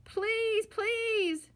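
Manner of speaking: high, loud begging cubs; loud pleading shout. A narrator's reading. Cubs shouting in the parking lot, loud pleading. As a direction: beg at the top of your lungs. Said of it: "shouted the cubs so loudly".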